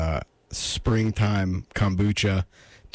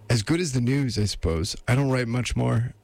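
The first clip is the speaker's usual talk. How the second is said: higher-pitched lady voice, put on; 4 semitones higher than usual. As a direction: slip lightly into a lady's voice. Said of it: "I'm doing this lady voice".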